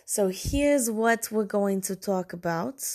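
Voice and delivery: put-on shaky stab at a Ukrainian accent; loosely imitated Ukrainian accent; attempted Ukrainian accent. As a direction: try on a Ukrainian accent, not very well. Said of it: "I think I'm trying to do a Ukrainian accent".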